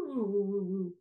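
wavering woos sliding downward; wiggly voice. Shown as a demonstration. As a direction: wobble the voice down the squiggle. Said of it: "We get to be all wiggly wiggly".

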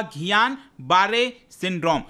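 "घियान बारे सिंड्रोम" said as ghee-yaan baa-ray sin-drom; pronunciation demo. Shown as a demonstration. Teacher showing viewers how the syndrome's name is said, pronunciation demo. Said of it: "इसका जो pronunciation होगा वो होगा".

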